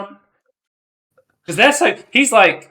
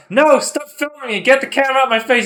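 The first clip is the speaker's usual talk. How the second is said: mock angry; 9 semitones higher, 5 dB louder than usual. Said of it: "he's like".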